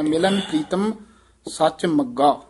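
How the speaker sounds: "ਮੱਗਾ" with a firm double g, after a break; tightened magga. Shown as a demonstration. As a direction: pause after "Pritam", then press the g of "ਮੱਗਾ". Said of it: "ਥੋੜ੍ਹਾ ਜਿਹਾ ਕੱਸ ਕੇ".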